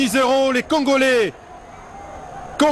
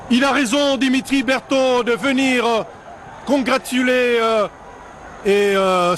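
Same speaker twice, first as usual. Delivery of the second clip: excited sports commentary; 7 semitones higher than usual. Real, not acted. Goal replay commentary, still elated.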